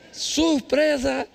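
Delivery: drawn-out, teasing surprise announcement; slow mock-delighted reveal. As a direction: stretch it out like an unwelcome surprise reveal. Voices mother-in-law turning up unannounced.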